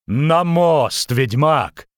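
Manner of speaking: firm cry over the din; urgent order. Acted. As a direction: call out an order under danger. Shouted order amid falling rocks.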